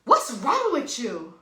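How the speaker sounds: loud, slow scold. Retold or imitated. Mother to her lost little girl, imitated angry scolding. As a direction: snap it slowly and loudly, an imitated telling-off.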